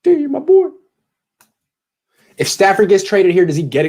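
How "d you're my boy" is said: much higher, louder hype call; excited shout-out. Acted. Host hyping up a listener in chat, higher and louder. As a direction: belt it out like a big fan shout.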